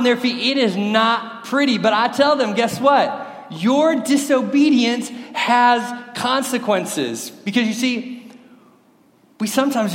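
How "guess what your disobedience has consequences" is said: slow, emphatic parental warning; raised, deliberate telling-off of the kids; stern parent. Retold or imitated. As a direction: lay down the law, word by word.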